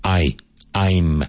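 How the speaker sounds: "I" alone, then "I'm", both with a full "eye"; clear "I'm" vowel. Shown as a demonstration. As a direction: build "I'm" from a separate, clear "I". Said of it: "So think of this".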